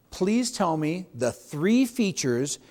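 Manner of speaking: slow, deliberate, every word weighed; slow down and make the point land; slow dramatic delivery. Shown as a demonstration. Agent demonstrating his key question, slow and dramatic. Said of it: "I slowed down, and I inflection of my voice went up".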